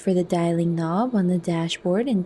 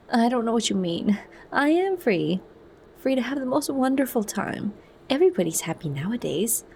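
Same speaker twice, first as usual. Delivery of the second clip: insistent; 5 semitones higher than usual. A narrator's reading. Lenina insists she is free.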